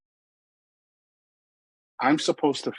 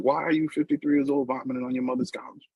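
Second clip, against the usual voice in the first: mock shouting; 5 semitones higher than usual. Sober helper wanting to shout through the window, mock yell. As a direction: act out yelling without real volume. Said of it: "I felt like shouting".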